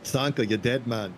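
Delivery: joking Jamaican film-quote voice; Jamaican accent. Pretend. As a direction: put on a light Jamaican accent. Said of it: "I start speaking like a Jamaican".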